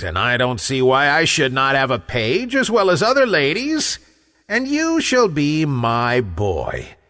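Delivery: a touch imperious, lilting up and down; understated storybook giantess; lightly voiced giantess. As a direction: lightly play a bossy giantess claiming her servant. Giantess addresses captured boy.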